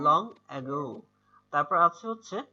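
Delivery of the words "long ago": "long", then "ago" with the o stretched in a falling wave; drawn-out wave. Shown as a demonstration. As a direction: let the end of "ago" glide out long and slow. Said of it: "একটা ঢেউয়ের মতো টান দিয়ে যাচ্ছে".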